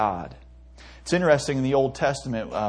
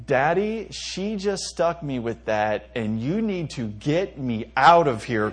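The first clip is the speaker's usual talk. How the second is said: put-on toddler plea; slower than usual.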